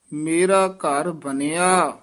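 "ਮੇਰਾ ਘਰ ਬਣਿਆ" ending in a short check; measured "ਮੇਰਾ ਘਰ ਬਣਿਆ" with a closing beat; brief pause after. Shown as a demonstration. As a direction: hold "ਬਣਿਆ", then halt briefly. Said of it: "ਇੱਥੇ ਠਮਕ".

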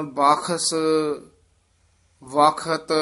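"ਬਾਖਸ", "ਵਖਤ" each with aspirated kh; khakkha pronunciation. Shown as a demonstration. Teacher listing similar words, "ਬਾਖਸ", "ਵਖਤ" with aspirated kh. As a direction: sound out "ਬਾਖਸ" and "ਵਖਤ" with clear kh. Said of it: "ਖੱਖੇ ਉਚਾਰਨ ਕਰਨੇ ਹਨ".

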